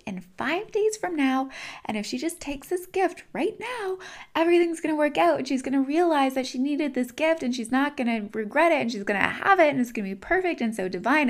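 acted-out pleading exasperation; exasperated pleading. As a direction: let it climb into a breathless run-on plea. Universe exasperated, pleading about her.

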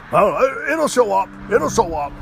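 high, loud mock shrug of a voice; mock careless buddy. Mocking his buddy dodging blame for lost parts, high and loud.

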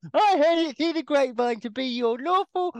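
a hint of mock officiant, teasing; imitating Kerry. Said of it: "You can do my voice".

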